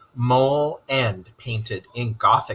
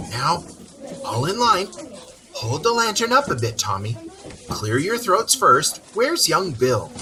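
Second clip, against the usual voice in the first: bossy little field mouse; 5 semitones higher than usual. Acted. Field mouse leader marshalling carollers.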